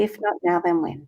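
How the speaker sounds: said gently, almost hushed; gentle repeat. Shown as a demonstration. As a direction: ease the question down tenderly. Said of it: "I wanna be gentle with you".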